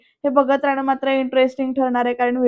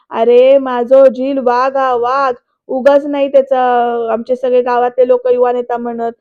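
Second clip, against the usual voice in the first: boasting; 7 dB louder than usual. Retold or imitated. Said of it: "फुशारक्या मारण्याचं चालू आहे".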